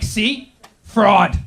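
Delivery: loud smug gotcha on Fraud; smug accusation. Retold or imitated. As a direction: sneer it like proof. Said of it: "They're like".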